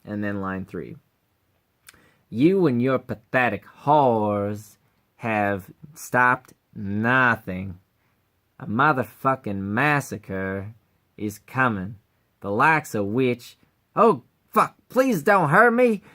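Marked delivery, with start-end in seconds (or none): 2.3-13.6 slow, a hint of threat; menacing Cleveland voice. Scientist threatening the heroes, slow and mildly menacing. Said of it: "sound like Cleveland from Family Guy". 14.0-16.0 higher, louder hammed-up pleading; mock panic. Villain suddenly begging the heroes, hammed-up panic.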